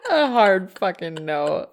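slow, laughing echo; laughing repeat. Real, not acted. Co-host cracking up at a husband's refusal, laughing. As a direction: repeat it slowly through giggles.

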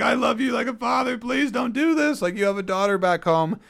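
loud, high, hammed-up pleading; imitated tearful scream. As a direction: beg desperately at the top of a mock wail. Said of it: "screams, cries, like".

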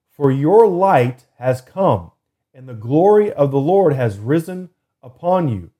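preached scripture reading. Acted. Podcast host proclaiming Isaiah to listeners, slow and fervent. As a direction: proclaim each phrase, stretching it out.

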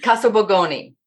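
"Borgoni" modelled as the correction; correct pronunciation. Shown as a demonstration. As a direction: show how "Borgoni" is properly pronounced. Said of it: "correct Erin on how to pronounce".

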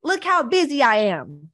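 high, self-pitying whine, each "See" pleading; mock her own old victim self, whining for attention; whiny martyr voice. Mocking her past self to viewers, high martyr whine. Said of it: "I can talk like this".

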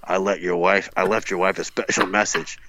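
lightly voiced menacing stalker; heavy breathing phone whisper. Shown as a demonstration. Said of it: "I'll try my Stalker voice here".

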